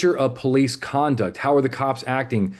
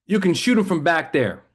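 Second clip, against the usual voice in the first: Texas drawl; 3 semitones higher than usual. Retold or imitated. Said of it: "your stereotypical Texas cop".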